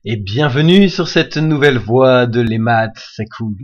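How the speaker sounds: creepy, unhinged villain greeting; psycho voice. Pretend. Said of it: "T'as remarqué que je fais ma voix de psycho".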